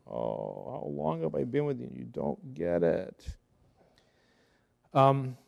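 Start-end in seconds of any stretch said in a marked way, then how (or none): 0.1-3.4 lightly voiced Jesus, patient but exasperated. Jesus gently chiding his slow disciples, lightly voiced and exasperated. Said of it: "I could just see Jesus going".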